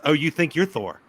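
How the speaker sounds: thick lisp, s said as th in Thor; lisping lady. Retold or imitated. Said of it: "the lady with a thick lisp says".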